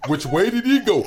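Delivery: asking through a laugh, lightly mock puzzled. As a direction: giggle out the question. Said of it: "trying to direct the airplane in".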